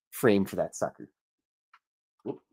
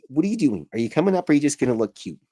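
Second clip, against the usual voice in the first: higher-pitched coaxing pet talk; 5 semitones higher, faster than usual. Real, not acted. Host asks the cat if he's coming up, pet talk.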